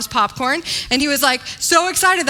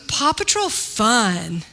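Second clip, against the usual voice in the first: put-on toddler voice; 3 semitones lower, slower than usual.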